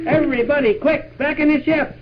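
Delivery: panicked shouted command; urgent shout. Pretend. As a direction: hurry everyone back inside. Urgent order to flee.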